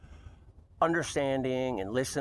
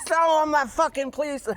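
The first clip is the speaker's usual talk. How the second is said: higher, louder hammed-up shout; imitated furious patient; 14 semitones higher, 6 dB louder than usual. Nurse mimics the patient yelling back, high and loud. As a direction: bellow it like an outraged old patient. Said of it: "She said".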